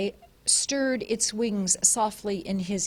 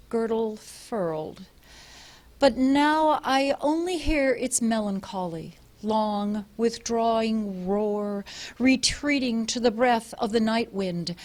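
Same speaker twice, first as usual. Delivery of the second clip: poem recital. Acted. Husband reading a poem to his wife's friends, solemn recital. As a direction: read it like a grave elegy.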